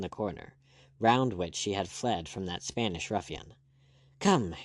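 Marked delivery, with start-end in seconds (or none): 4.2-4.5 urging. Acted. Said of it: "he urged again".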